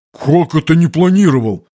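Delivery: mild outraged question; indignant squire. A narrator's reading. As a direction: squire to captain, lightly outraged. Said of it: "Возмущению парня не было предела".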